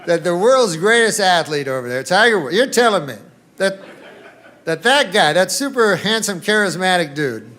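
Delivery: loud, incredulous ranting; mock outraged disbelief. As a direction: play it like you just can't believe the news. Mock disbelief rant on stage.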